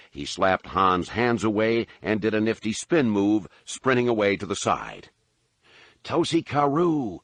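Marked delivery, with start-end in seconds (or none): 6.0-7.2 high, slow call after a fleeing man; yelled after him. A narrator's reading. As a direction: Han calls out after the running man. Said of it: "Han yelled after him".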